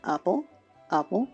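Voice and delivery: normal talking voice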